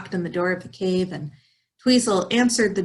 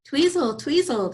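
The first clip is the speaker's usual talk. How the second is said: calling out; 6 semitones higher than usual. Acted. Mice calling from tree.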